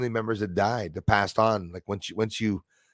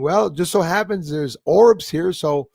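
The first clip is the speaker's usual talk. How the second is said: slow, higher, drawn-out imitation; imitating dancing Gina; 5 semitones higher, 4 dB louder, slower than usual. Host imitating dancing Gina inviting orbs to dance, lilting. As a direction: stretch the words in a lilting, put-on woman's voice. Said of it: "She's saying".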